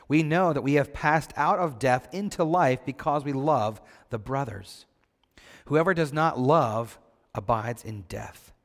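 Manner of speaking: measured, solemn Bible reading; scripture reading. Acted. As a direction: read the verses out to the congregation. Reads the Bible passage aloud.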